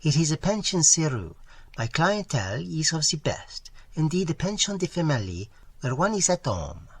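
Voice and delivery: put-on high, bright French-accented landlady chatter; gushing Parisian pension keeper with a French accent. Madame's sales pitch.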